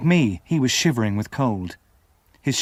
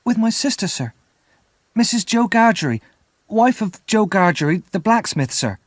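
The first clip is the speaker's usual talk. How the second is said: put-on higher, louder child's voice; frightened boy telling the convict who he lives with; nervous eager answer; 9 semitones higher, 3 dB louder than usual. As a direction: answer fast to please him, pitched up.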